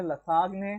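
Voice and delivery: लसागने said fast as la-saag-ne, mimicking students; students' wrong take of lasagna; mock anglicised try. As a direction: imitate the students' guess लसागने. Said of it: "थोड़ा सा English बोलेंगे".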